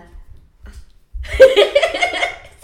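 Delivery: high, breathy giggle. Shown as a demonstration. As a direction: giggle instead of a villain laugh. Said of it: "that's not a laugh, that's more like a giggle".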